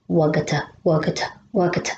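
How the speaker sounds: speeding up. Acted. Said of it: "First slowly ... building up speed".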